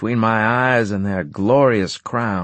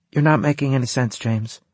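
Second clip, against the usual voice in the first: patient; 5 semitones higher than usual. Acted. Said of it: "she said patiently".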